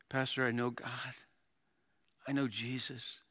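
soft, level, peaceful deathbed voice; dying believer. Retold or imitated. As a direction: confide it gently as a believer near death. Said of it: "get really close to their face".

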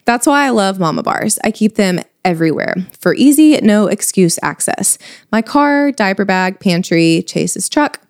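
upbeat, polished podcast ad read; sponsor ad read. Acted. Host sells snack bars to busy mamas, sponsor ad read. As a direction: pitch snack bars to fellow tired mothers.

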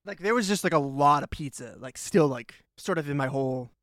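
talking around chewing gum; mówi z gumą w ustach. Real, not acted. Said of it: "I have a piece of gum in my mouth".

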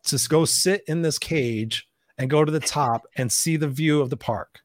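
stretched out slowly, savoring each word; slow, deliberate excitement. Retold or imitated. Dad on the Ferris wheel, coaching himself slowly. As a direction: talk yourself into it, slow and sure. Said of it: "But I said".

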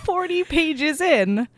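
slow, suggestive drawl with a laugh; coy innuendo. Real, not acted. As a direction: drag it out knowingly, chuckling.

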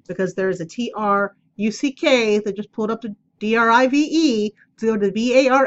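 spells T R U C K, D R I V E and V A R N letter by letter; spelling words out. Shown as a demonstration. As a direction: spell the trigger words out letter by letter so the dogs miss them. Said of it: "if I say any of those words".

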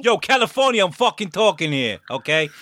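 high-pitched joking telling-off; mock indignation. Player jokingly scolding another for interrupting, mock indignation. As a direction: cut in with put-on outrage. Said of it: "I'm joking, sorry".

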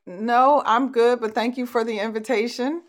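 brushing off an invitation sweetly; polite refusal. Retold or imitated. Declining a church member's ministry invite, politely cheerful.

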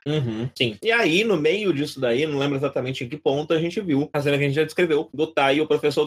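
talking with a mouthful of brigadeiro; chewing while talking. Real, not acted. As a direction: chew and talk at once, words muffled by food. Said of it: "tô comendo, viu, gente?".

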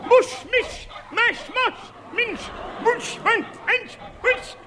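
high comic "mush" calls to the dogs; high mock dog-sled calls; sled driver calls. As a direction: bark out musher cries. Alaska mime, sled calls.

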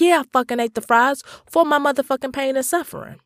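fast, high-pitched retold outburst; mock outrage, rushed and high; defiant admission. Customer owning up to eating the fries, defiant.

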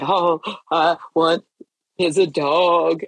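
drawn-out, mock tearful plea; retold sobbing request, slowed right down; imitating bawling child. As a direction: stretch it out like a bawling kid. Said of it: "I mean bawling".

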